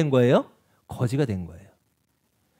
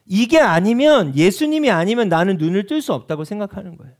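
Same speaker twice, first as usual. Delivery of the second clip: ordinary talk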